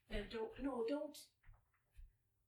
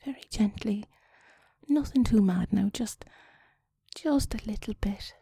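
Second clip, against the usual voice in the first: sexy whisper; 3 dB louder than usual. Pretend. Whispered phone-sex guidance.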